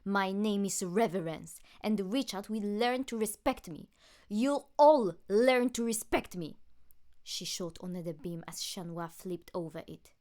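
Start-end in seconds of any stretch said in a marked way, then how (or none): 0.0-6.6 villain declaration. Acted. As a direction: proclaim your revenge to everyone. Villain declares her vengeance.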